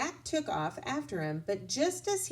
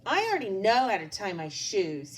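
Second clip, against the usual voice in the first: huffy; 4 dB louder than usual. Acted. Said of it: "he said huffily".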